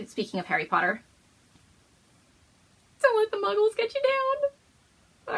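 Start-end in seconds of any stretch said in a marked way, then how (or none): 3.0-5.4 high, slow sing-song read. Acted. Reading the slogan on a Harry Potter bag, high and slow. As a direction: read it out like a cheeky motto.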